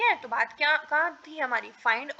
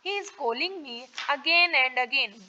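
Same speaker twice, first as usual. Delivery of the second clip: each word spaced out slowly for students; slow, clear classroom dictation; much slower than usual. Shown as a demonstration. Teacher dictating model sentence.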